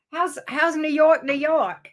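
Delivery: put-on a weak stab at a New York accent on the city name; half-hearted New York twang, said to Jonathan in fun; poor New York accent. Greeting Jonathan from New York, in a poorly done New York accent. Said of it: "really poor attempt at a New York accent".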